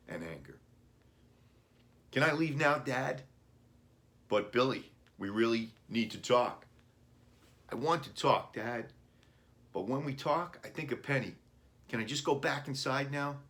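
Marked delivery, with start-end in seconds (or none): 2.1-13.4 put-on much higher, louder hurt boy; upset boy. A narrator's reading. Boy begging his dad to let him leave, high and loud. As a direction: push back like a wounded kid.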